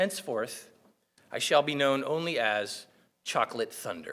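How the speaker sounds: acted out, bone-dry, completely deadpan, dead-serious. Retelling a reply to a proposed form of address: imitating a deadpan delivery. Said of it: "completely deadpan".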